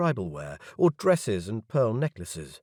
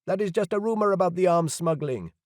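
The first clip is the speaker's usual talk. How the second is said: doubting guest; 9 semitones higher than usual. A narrator's reading. Guest disputes claim.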